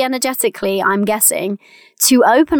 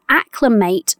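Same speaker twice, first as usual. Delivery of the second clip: acclimate picked out with deliberate emphasis; stress on acclimate; slower than usual. Real, not acted. Coach flags the key word for listeners, stressing acclimate. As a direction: lean on the word acclimate so it stands out. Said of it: "the reason I'm emphasizing that word".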